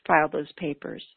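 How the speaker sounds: put-on lightly whiny inner toddler listing chores; a hint of a sulky child refusing; mild mock toddler whine. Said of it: "that little whiny voice that says".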